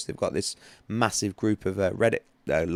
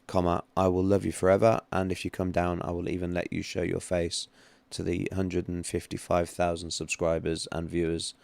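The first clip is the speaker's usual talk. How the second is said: dictating a text. Shown as a demonstration. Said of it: "Andy, comma".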